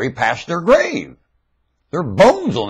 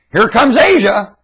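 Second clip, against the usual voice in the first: high, slow mocking call; slow and high, like an announcer jeering; mock announcement; 11 semitones higher, 6 dB louder than usual. Preacher jeering at Asia, a slow high mock call.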